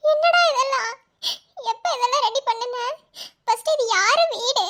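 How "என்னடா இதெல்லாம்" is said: emotional. Real, not acted. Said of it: "ஓவரா உணர்ச்சி வசப்படாதடி".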